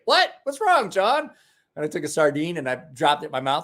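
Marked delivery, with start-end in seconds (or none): 0.0-1.3 high, fake-innocent question; mock innocent. Teasing the sick friend, high mock-innocent question. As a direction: play dumb, pitch way up. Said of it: "I'm like".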